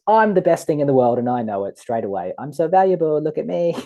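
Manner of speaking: put-on a child showing off to a doting dad; proud little child. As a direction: crow it like a cherished child. Valued child boasting proudly.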